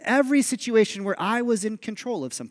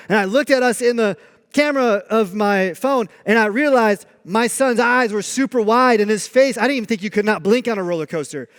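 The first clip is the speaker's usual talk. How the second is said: normal talking voice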